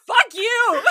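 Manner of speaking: high, loud fake outburst; mock yell. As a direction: blurt it like a playful curse at the screen. Venting frustration in quoted outburst.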